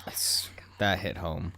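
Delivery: hushed wounded whisper. Real, not acted. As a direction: breathe it out hurt. Wounded joke reaction.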